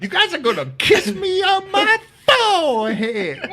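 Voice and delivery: high hammed-up yell through laughter; mock shouted demand. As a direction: demand it like a crazed tier boss. Replays the inmate's demand.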